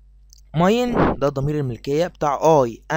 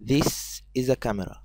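"this is a camera" spoken slowly and clearly; teacher slowly reads the answer to the kids; slow model answer; 2 semitones lower, 5 dB quieter, slower than usual. Shown as a demonstration. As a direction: spell out the right answer slowly. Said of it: "احنا هنقول".

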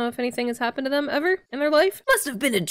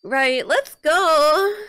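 slow, loud hype; hyped; 6 semitones higher, 4 dB louder, much slower than usual. Pretend. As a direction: drag out a big hype call. Mock hyped start.

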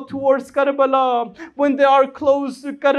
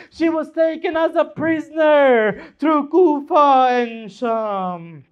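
mourning lament; 2 semitones higher than usual. Acted. Lament closing a mourning sermon.

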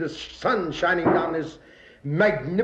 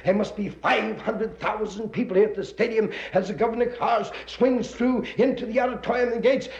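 normal talking voice

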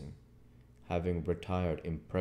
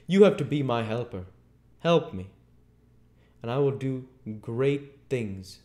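raised, emphatic voice, easing toward the end; commanding Invisible Man; 5 semitones higher, 6 dB louder than usual. A narrator's reading. Invisible man tells Marvel he is chosen, commanding. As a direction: recruit him with grand insistence.

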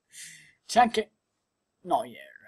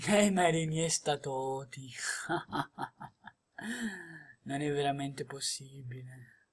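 low, awed repeat of the names; quiet disbelief; stunned murmur; 6 semitones lower, 9 dB quieter than usual. Real, not acted. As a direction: say it again, unable to believe it.

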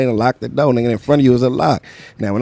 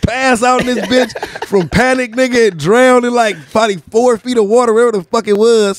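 worked-up; 5 semitones higher than usual. Retold or imitated. Panicked retelling of nearly drowning.

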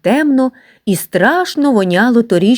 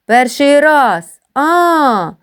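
mock surprise; 7 semitones higher, much slower than usual. Boys mock the newcomer's first day, feigned surprise. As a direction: pretend to be amazed. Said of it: "крикнули хлопці".

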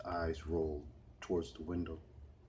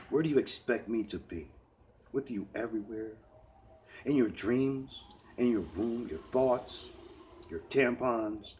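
sarcastic angry; 4 semitones higher, 4 dB louder than usual. Acted. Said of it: "in a sarcastic but angry tone".

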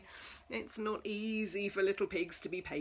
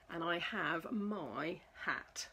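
whispered refrain; 5 semitones lower, 6 dB quieter than usual. Acted.

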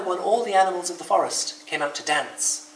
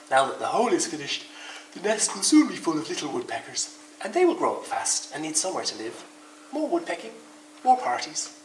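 sleepy; 3 semitones higher than usual. Acted. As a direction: speak drowsily. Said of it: "said Bear sleepily".

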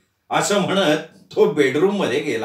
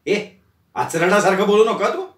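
scolding; 3 semitones higher than usual. Acted. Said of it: "अरुंधतीने तिला दटावलं".

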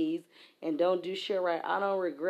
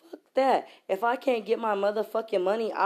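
angry outburst; 4 semitones higher than usual. Real, not acted. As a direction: spit it out, fed up.

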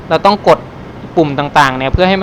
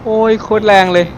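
shaky voice; 4 semitones higher than usual. Real, not acted. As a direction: voice rattling like a bumpy road. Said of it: "มันสั่นไปหมดแล้วเนี่ยนะ". (เสียงสั่นเหมือนรถวิ่งบนถนนขรุขระ)

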